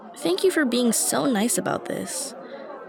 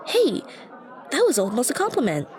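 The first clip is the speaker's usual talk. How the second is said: pleased surprise; 3 semitones higher than usual. Real, not acted. Catching her own compliment.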